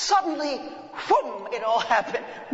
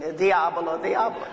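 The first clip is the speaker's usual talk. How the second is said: Sicilian mutter; 5 dB louder than usual. Retold or imitated. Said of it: "'cause they're all Sicilians there".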